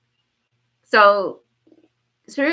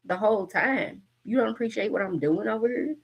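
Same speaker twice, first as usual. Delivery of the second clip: mock scolding; 2 semitones higher, 4 dB louder than usual. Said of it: "So Spirit is saying".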